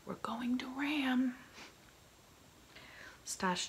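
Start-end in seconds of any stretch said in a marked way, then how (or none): 0.0-1.4 high, loud, slowed warning call; shouted warning. A narrator's reading. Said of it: "came the shout from above".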